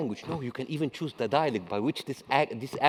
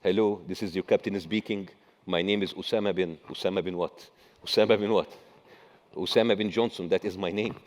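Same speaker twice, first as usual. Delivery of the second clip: a lightly put-on Arab accent on the pilot's announcement; mock captain greeting, hint of Arab accent, a bit lower; 3 semitones lower than usual. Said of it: "Can you imagine hearing this voice".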